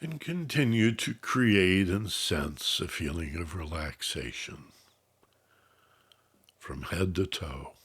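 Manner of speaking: measured, unhurried instructions, easing off at phrase ends; guided meditation. Real, not acted. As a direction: calmly guide listeners into relaxation, letting phrases settle.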